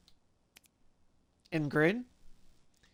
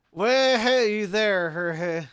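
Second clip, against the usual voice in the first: lightly voiced drunk, drawn-out greeting; mock-drunk hailing; drunk Finley; much slower than usual. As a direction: play a tipsy, rambling hello. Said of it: "apparently Finley was drunk".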